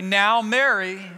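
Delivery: slow, firm "Now, Mary." with a warning edge; a teacher's mild rebuke; "Now, Mary." said slowly, like a stern warning. Acted. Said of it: "get stern with her and say".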